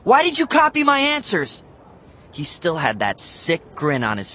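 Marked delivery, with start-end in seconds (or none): 0.0-1.6 much higher and louder, furious; growled. A narrator's reading. Matt confronting Bradley, angry growl. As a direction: demand it in a rage. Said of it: "I growled".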